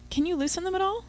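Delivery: high nervous squeak; squeaking up at her boyfriend, tied down; squeaky. Acted. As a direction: pitch way up like a startled mouse. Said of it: "I squeaked".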